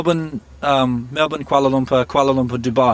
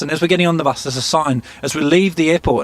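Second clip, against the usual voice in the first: ordinary talk, nothing marked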